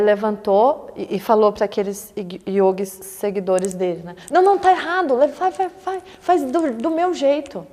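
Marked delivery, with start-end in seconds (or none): 4.3-7.7 a scolding teacher, raised; mock stern Buda. Buda scolding his followers, in a mock stern voice.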